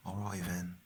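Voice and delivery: "then" pronounced "ven"; Cockney "all right then", with V starting "then". Shown as a demonstration. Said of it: "the V sound on the T H words".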